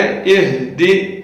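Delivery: اہدی with the ha from the chest, slow. Shown as a demonstration. Teacher modelling the ha in اہدی. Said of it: "اس کا خیال کریں".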